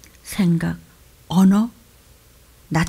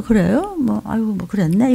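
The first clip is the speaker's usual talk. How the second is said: mock careless reply. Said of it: "입으로만 그냥".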